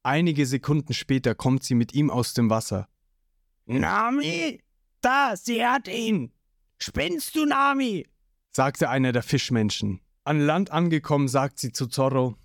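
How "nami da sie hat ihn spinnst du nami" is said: higher, startled creature voice; fish-man's voice. A narrator's reading. Fish-man watching Nami rescue Zorro, startled and high. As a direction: call out in surprise.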